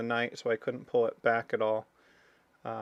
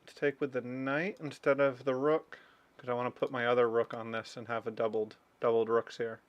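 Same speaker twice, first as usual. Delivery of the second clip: muffled by a hand over the mouth. Real, not acted. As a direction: talk through your fingers. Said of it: "I keep covering my mouth talking into my hand".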